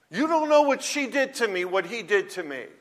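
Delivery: high-pitched protest, easing down toward the end; protesting objector. Acted. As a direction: play an aggrieved objector cutting in.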